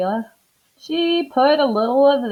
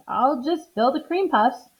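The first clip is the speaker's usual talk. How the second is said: high, breezy helper; matter-of-fact, cheery; Amelia offhand; 7 semitones higher, 3 dB louder than usual. Acted. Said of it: "said Amelia Bedelia".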